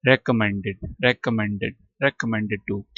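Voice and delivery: रिकमेंडेड opening on "reh", then a short "kuh"; corrected pronunciation. Shown as a demonstration. Teacher modelling it for students, रिकमेंडेड with "reh" first. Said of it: "रे पढ़ना है".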